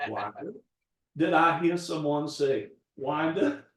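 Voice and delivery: mildly imitated old Georgia accent; understated Southern Georgia gentleman's accent; Foghorn Leghorn Georgia drawl. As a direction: repeat it in a light Georgia blue-blood accent. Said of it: "it's just like Foghorn Leghorn".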